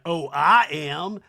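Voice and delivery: exaggerated slow impression of a socialite; Sutton. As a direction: draw it out proudly, hammed-up. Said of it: "And Sutton's like".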